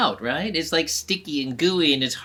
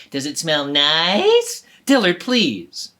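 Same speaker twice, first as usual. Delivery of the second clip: slow, louder exasperated plea; fed up with him, drag it out; frustrated; 6 dB louder, slower than usual. Acted. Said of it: "She got a little frustrated".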